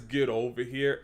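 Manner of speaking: understated, limp catchphrase; lame delivery. Retold or imitated. YouTuber quotes the game actor's line he dislikes, lame. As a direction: quote it with little force. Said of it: "it kinda sounds lame".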